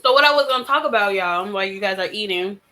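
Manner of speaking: talking with a mouth full of food. Real, not acted. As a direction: speak around a bite of food. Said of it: "as I'm talking with food in my mouth".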